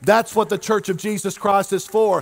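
driving sermon that builds to a held-out climax; impassioned preaching. Real, not acted. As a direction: preach it with mounting force. Preaches at rising force.

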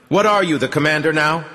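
a startled jab of disbelief; surprised. A narrator's reading. Zhenya surprised that Artyom is giving orders, sober and surprised. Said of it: "sober and surprised voice of Zhenya".

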